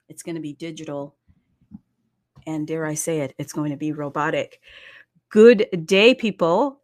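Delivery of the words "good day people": a loud, bright call to open the show; hearty host welcome to the viewers; loud greeting. Real, not acted. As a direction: call out to the room. Opening call to the audience.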